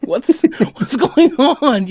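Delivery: high, laughing and slow. Real, not acted. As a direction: squeeze it out between laughs. Laughing through words.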